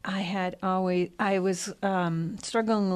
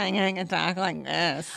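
put-on grating voice for a joke; annoying voice; 2 semitones lower than usual. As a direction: talk in a silly, irritating voice on purpose. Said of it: "some really annoying voice".

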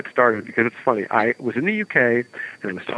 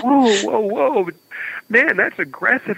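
taken aback; 10 semitones higher than usual. Retold or imitated. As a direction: recoil with high-pitched whoas. Acting out reaction to pushy kid.

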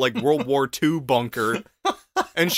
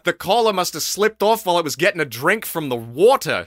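laughing imitation. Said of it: "he goes".

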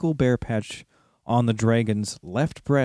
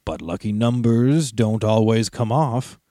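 sneering dragon. Acted. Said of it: "sneered the dragon".

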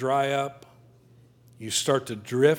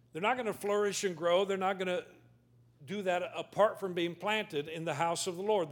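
quiet earnest; 2 semitones higher, 7 dB quieter than usual. Acted. Preacher drops to earnest warning.

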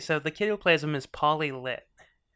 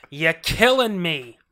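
put-on old borscht belt comic; 7 dB louder, slower than usual. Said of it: "The way he talks to Susan Sarandon".

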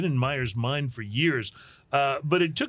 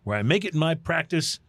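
lightly hammed-up reporter sign-off; a touch of newsroom gravity, played for laughs; mock news sign-off. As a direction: wrap it up like a field reporter, tongue in cheek.

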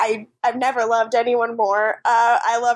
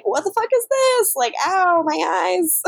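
higher-pitched mock alarm, pained at the end; mock startled outburst; 6 semitones higher than usual. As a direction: act out being caught in a sudden glare. Retelling character blinded by spotlight.

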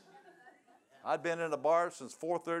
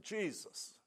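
higher, softer, imitating a strained squeak; 6 semitones higher, 6 dB quieter than usual. Sinner fighting to say the name, imitated squeak. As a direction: squeeze the name out small and high. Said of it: "I squeaked out the name of Jesus".

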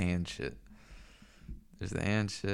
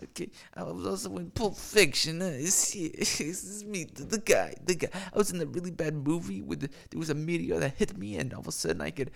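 John Travolta impression; 5 semitones higher than usual. Streamer doing a shitty impression for chat, lightly voiced. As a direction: introduce yourself as the star, with giggles. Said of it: "That was a shitty impression".

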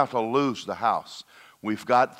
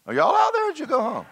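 high, loud call to the congregation; calling out to the crowd; 3 dB louder, faster than usual. Real, not acted. Preacher calls out to congregation.

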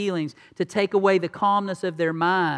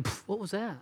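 mock angry snort; 10 dB quieter than usual. Shown as a demonstration. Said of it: "you go".

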